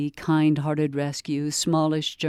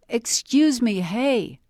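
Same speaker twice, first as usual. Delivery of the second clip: a higher, louder call to catch her; calling again; 8 semitones higher, 3 dB louder, slower than usual. A narrator's reading. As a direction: stranger calling after Amy in the park, raised voice. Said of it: "the woman called again".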